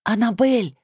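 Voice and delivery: hoarse whispered call, rising panic; raspy whisper. A narrator's reading. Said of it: "зову хриплым шёпотом".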